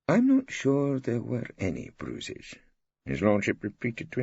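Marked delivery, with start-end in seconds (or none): 0.1-2.5 put-on higher, slower old judge voice; judge repeating. A narrator's reading. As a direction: read it back slowly as you write. Judge repeats while writing.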